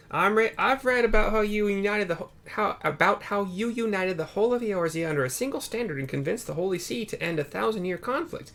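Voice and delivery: a keen reporter itching to leave; eager Lena. Acted. Lena's dialogue voiced.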